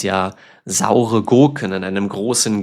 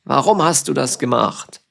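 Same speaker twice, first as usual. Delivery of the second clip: a touch of annoyed, pitch raised; playful demo of being cross; mock angry; 4 semitones higher than usual. Shown as a demonstration. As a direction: act out being grumpy. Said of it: "Sauer ist ein Synonym auch für wütend".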